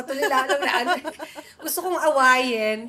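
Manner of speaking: half laughing it out at her own anger. Real, not acted. Wife laughing while telling the Paris fight.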